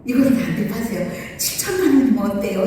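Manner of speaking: hurried, excited offer; excited retelling. Retold or imitated. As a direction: blurt the offer out quickly, retelling it. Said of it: "막 흥분해가지고". (흥분해서 서두르는 말투 재연)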